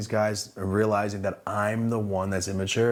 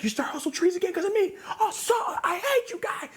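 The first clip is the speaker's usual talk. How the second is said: much higher, laughing and yelling; laughing mock rage. Ranting at the owner for copying him, laughing mock shout. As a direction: fake fury that breaks into laughter.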